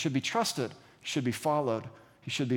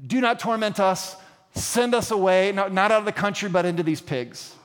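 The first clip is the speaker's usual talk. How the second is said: raised, insistent mild plea; begging; 3 semitones higher than usual. Acted. Possessed man begs Jesus for mercy, mildly acted pleading. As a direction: plead a little higher, lightly acted. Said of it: "he's begging them".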